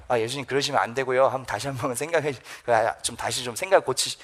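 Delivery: soft, low, deferential mock protest; polite objection. Shown as a demonstration. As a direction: object timidly, keeping it small and courteous. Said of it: "예의 바르게 항변하다라고 써 있잖아요". (조심스럽고 예의 바르게 낮은 소리로)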